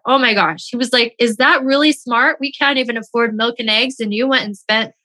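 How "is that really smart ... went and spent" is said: retold angry husband. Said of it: "He was so mad".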